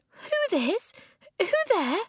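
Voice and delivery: very high, thin voice; startled question. A narrator's reading. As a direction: ask it in a high squeak. Startled question in whispered scene.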